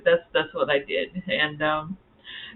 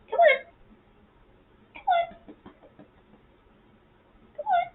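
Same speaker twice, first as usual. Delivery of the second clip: very high coax fading softer; 3 dB quieter than usual. Real, not acted. Calling the pet again, high and fading softer. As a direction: keep cooing softly, giving up.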